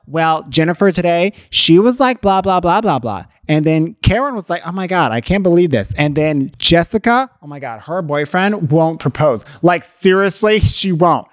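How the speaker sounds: hammed-up gossip running on and on; lightly mocked chatty girlfriend monologue; rambling girlfriend. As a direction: pile up trivia without stopping. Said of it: "you should be like".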